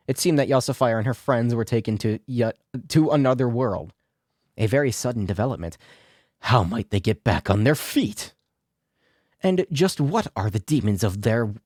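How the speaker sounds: brisk narrator wrap-up; episode narration. A narrator's reading. Narrator teasing the next episode, brisk wrap-up. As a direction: close the episode like a teaser.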